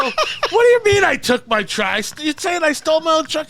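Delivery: can't believe he's being blamed; laughing, outraged disbelief; incredulous. Retold or imitated.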